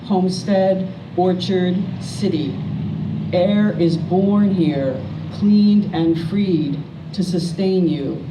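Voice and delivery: slow, measured poem recital with pauses between lines; poetry reading. Acted. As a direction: read it as a poem, line by line, letting each image land. Poet reads own poems aloud.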